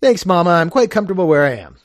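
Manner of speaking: light put-on society girl; Gwendolen. Gwendolen politely declines her mother, lightly voiced. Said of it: "Oh, I'll be Gwendolen, too".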